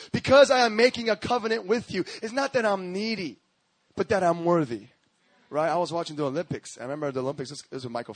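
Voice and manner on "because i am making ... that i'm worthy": measured, emphatic pulpit delivery; emphatic preaching. Real, not acted. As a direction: declare God's words to the congregation. Preaches God's words from passage.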